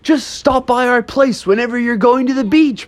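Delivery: high, chummy dude ghost; surfer-dude ghost. Acted. Ghost seeing off the bear family, high chummy dude voice. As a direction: play a hospitable beach-dude spook. Ghost bids bears farewell.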